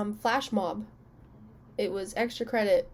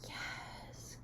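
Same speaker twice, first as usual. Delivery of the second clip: hyped beauty guru cheer; much slower than usual. Pretend. Vlogger cheers on her eyeshadow, put-on sassy hype. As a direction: play the over-the-top makeup guru. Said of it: "That felt so unnatural for me to say".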